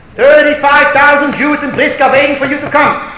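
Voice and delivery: loud, high-pitched proclamation; urgent appeal. Acted. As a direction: proclaim it like an urgent message from a whole town. Acted urgent message from townspeople.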